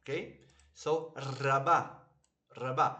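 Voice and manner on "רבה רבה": רבה with a trilled R to start; rolled R. Shown as a demonstration. Teacher models the word for learners, rolled R. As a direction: roll the first sound of רבה. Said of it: "how to pronounce this word proper".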